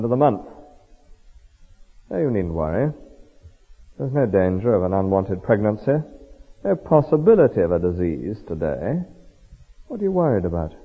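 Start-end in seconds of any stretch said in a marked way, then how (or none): 2.1-10.7 low, unhurried soothing; reassuring. Acted. Temptress easing the alarmed young man's worries, reassuring. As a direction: put all worries to sleep, voice dropped low. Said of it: "Very reassuring words".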